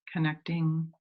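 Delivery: unhurried meditation guide, long pauses between phrases; measured phrases that invite visualizing; guided meditation. Real, not acted. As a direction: gently lead listeners inward, leaving space to breathe.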